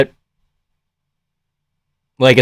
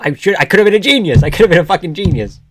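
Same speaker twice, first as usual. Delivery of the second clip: regretful lament; 4 semitones higher, faster than usual. Real, not acted. Lamenting a missed pick.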